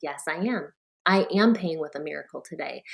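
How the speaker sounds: letting the belief sink in; heartfelt. Retold or imitated. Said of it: "And then I felt it".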